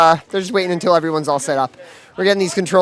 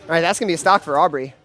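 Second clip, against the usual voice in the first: lively esports caster call; play-by-play commentary. Acted. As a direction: call the action as it happens. Live play-by-play of the match.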